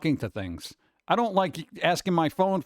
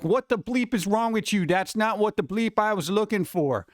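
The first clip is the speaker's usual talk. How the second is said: mock irate yell; 4 semitones higher than usual. Irate user yelling at Alexa or Google, mock yell. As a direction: act out telling off a gadget. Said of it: "you start yelling at it".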